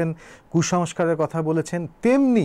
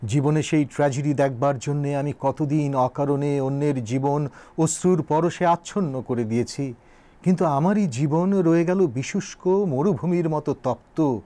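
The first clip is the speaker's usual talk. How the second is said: measured, solemn reminiscence; flowing oratory with deliberate pauses; formal speech recitation. Acted. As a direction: recite it as a poet's address. Recites Nazrul's speech aloud.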